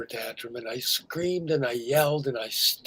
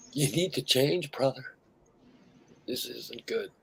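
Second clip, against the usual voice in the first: quiet inner voice; 5 dB quieter than usual. Retold or imitated. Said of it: "inside me said".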